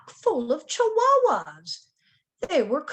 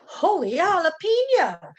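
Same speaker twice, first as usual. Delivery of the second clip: high, loud startled cry; excited exclamation; 6 semitones higher, 6 dB louder than usual. A narrator's reading. Kitten crashes into stuffed animals, exclaiming high and loud. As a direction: shout it in happy surprise. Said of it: "exclaimed Skippy John Jones".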